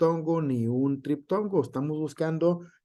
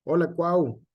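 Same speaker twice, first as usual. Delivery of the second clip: lightly acted friendly greeting, a little higher; affectionate nickname call; 4 semitones higher, 3 dB louder than usual. Teacher imitates friends greeting a Cuauhtémoc, affectionate nickname call. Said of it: "les llamamos de cariño".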